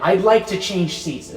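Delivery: very loud. Acted. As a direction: say it slowly for everyone to hear. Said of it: "it was very loud".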